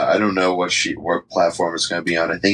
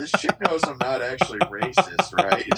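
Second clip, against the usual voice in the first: alarmed disbelief; 9 semitones higher, 3 dB quieter than usual. Retold or imitated. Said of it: "And I was like".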